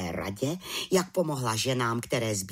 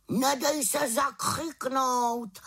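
high, slow raven voice; much higher, drawn-out raven's parting cry; raven calling after her; 12 semitones higher, much slower than usual. A narrator's reading. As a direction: call out encouragement as a wise old bird. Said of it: "volal za ní na rozloučenou".

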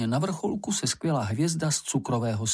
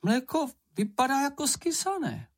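reproachful; 13 semitones higher than usual. A narrator's reading. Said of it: "ukázal vyčítavě".

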